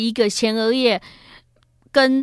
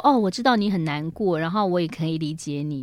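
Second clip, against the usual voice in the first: understanding; 4 semitones lower, 4 dB quieter than usual. Shown as a demonstration. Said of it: "不如讲说".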